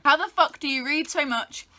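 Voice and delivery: usual speaking voice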